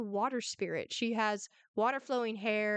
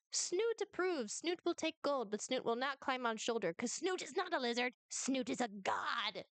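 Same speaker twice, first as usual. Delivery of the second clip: Snoot; 2 semitones higher than usual. Acted. Game master voices Snoot.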